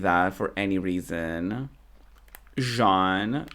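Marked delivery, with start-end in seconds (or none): 2.6-3.4 French "zhahn" for Jean; French-sounding Jean. Real, not acted. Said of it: "I don't know why I said it like that".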